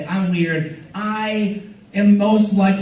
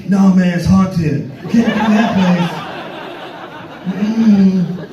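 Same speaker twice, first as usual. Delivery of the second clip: slow, louder, laughing no man; hammed-up spooked refusal; mock refusal; 3 dB louder, slower than usual. Guide refusing a trip to Chicago.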